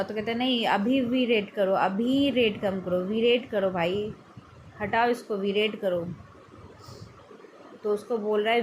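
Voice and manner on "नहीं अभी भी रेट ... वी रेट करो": scolding shopkeeper. Retold or imitated. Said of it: "उसको डांट रहा है".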